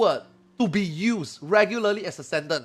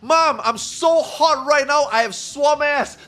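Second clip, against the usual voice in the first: put-on whiny kid; 6 semitones higher, 5 dB louder, slower than usual. Kid whining to mom, acted.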